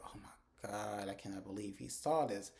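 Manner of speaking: slow, drawn-out "oh my God"; understated retold dread; mock dismay. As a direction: imitate someone aghast at being caught. Retold dismay at being seen.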